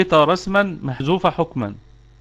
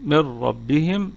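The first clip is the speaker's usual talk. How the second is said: "من ربهم" drawn out very slowly, with a heavy, full ra; slow recitation demo; much slower than usual. Shown as a demonstration. Teacher slows down so students hear the heavy ra in "من ربهم". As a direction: slowly spell out "من ربهم" for the class, leaning on the ra. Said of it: "الراء مفخمة".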